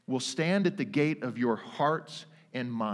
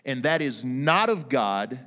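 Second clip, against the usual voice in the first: peace calling out the enemy; 3 dB louder than usual. Pretend. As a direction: stand guard and call out the intruder. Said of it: "calls out the enemy and says".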